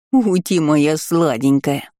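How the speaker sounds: slow silly cooing; baby-talk voice. Acted. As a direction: coo like to a baby. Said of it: "просюсюкала дурацким голосом".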